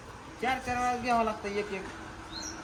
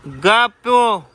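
sharp hush; 10 dB louder, much slower than usual. Real, not acted. Hushing the crew.

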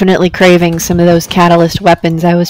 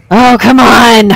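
exasperated shout; 6 dB louder, slower than usual. Real, not acted. Player fails again.

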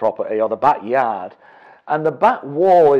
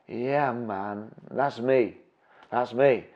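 softer, laid-back mock stoner reply; relaxed, low-effort mumbled answer; chilled-out stoner; 3 semitones lower, 6 dB quieter, much slower than usual. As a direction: imitate a very chilled guy, barely bothered. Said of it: "they are so chilled it is unbelievable".

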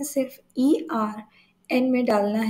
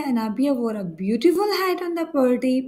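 slow example reading; slower than usual. Shown as a demonstration. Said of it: "teacher reads out example sentence".

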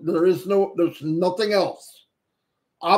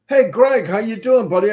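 excited greeting; 3 semitones higher, 6 dB louder than usual. Real, not acted. Host greets his buddy Greg in chat, bright and loud.

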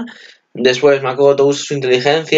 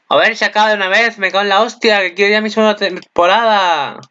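higher, fast, exasperated rant; impatient outburst; 8 semitones higher than usual. Real, not acted. Fan ranting that the season should just start already. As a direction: blurt it out, fed up with waiting.

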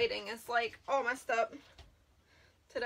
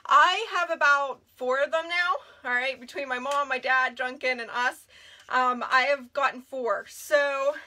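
winded from running upstairs; out of breath. Real, not acted. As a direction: talk while catching your breath. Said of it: "I'm catching my breath. I ran up the steps".

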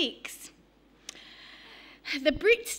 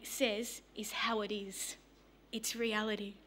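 whispered; 5 semitones lower, 10 dB quieter than usual. Retold or imitated. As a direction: breathe it like a secret truth. Woman quoted on her conviction.

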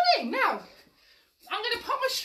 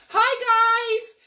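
sung-out hi, much louder; sing-song hi; 5 semitones higher, 8 dB louder than usual. Real, not acted. Teacher singing hi to the children. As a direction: call hi out merrily. Greeting the kids online.

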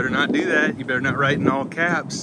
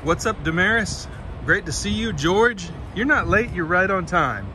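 high, bright-pitched welcome to each name; light up as each friend shows up; excited hello; 6 semitones higher than usual. Real, not acted. Streamer happily greeting Damaris and George in chat, pitched high.

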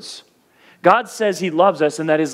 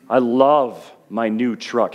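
slow, lower, gushing over new shoes; mock gushing; 5 semitones lower, slower than usual. Shown as a demonstration. Pastor mocking empty love, slow and low gushing. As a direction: play the shallow love of things. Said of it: "we take this word love".

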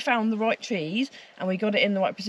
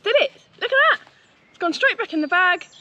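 loud bright ta-da; triumphant; 7 semitones higher, 6 dB louder than usual. Real, not acted. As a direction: show it off with a cheer. Triumphant reveal.

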